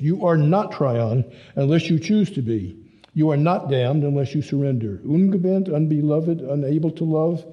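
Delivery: lightly voiced young German, urging his father; pleading son. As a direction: press him gently to see he is loved.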